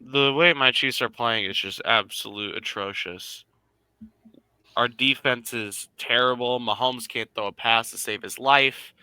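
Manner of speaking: normal talking voice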